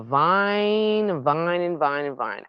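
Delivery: slow, sustained run of held words; drawn-out vining. Shown as a demonstration. Gardener showing viewers how squash climbs, drawn out. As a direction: stretch each vine out slowly.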